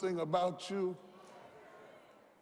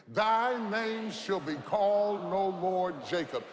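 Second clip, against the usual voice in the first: louder, said together in unison; louder call with congregation; 4 dB louder than usual. Shown as a demonstration. Preacher leads church in loud unison. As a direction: proclaim it with the crowd. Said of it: "Say that with me".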